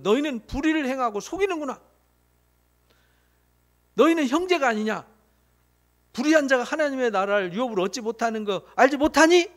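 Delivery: Paul scolding the Corinthians, understated stern rebuke; retold scolding. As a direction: rebuke the church like Paul, only half in earnest. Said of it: "야단치는 거예요".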